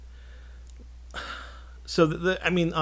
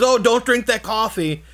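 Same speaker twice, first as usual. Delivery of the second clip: put-on higher, louder old-man warning; 12 semitones higher, 8 dB louder than usual. Imitating the old guy warning the sheriff, high old-man voice. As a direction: warn them like a fussy little old man. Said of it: "He says".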